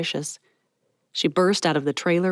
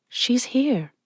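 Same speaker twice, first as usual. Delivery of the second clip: higher, hushed friend voice; Ezra, announcing; 7 semitones higher than usual. Acted. Ezra warning Mallory of Miss Patty, hushed.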